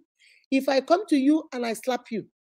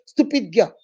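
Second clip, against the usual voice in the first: cursing insult; 5 dB louder than usual. Retold or imitated. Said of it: "you say".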